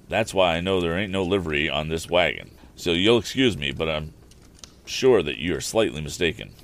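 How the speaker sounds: a rustic carter explaining himself, lightly put on; rambling wagon driver.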